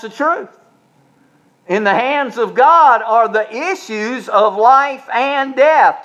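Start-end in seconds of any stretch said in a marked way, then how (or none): 1.7-6.0 preaching declaration. Acted. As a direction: rise to a ringing close. Preaching the scripture line.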